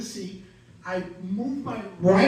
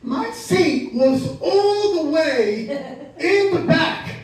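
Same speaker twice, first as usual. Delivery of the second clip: rising comic outrage; 4 semitones higher, 4 dB louder than usual. Acted. Comic telling the crowd about his seat, building louder and higher. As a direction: stretch it out, climbing to the punch.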